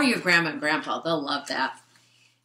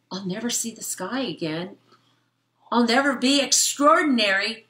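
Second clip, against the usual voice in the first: lightly voiced sad bug; a hint of melodrama; gloomy fly; 5 semitones higher, 4 dB louder than usual. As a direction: mope like a tiny lost fly. Fly laments in vacuum.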